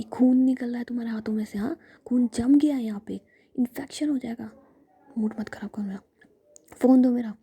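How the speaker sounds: a hint of angry big sister, hushed and loud at the end; whispered scolding. Jiya snapping at injured Ruhi, whispered angry scolding. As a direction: scold her in a harsh whisper.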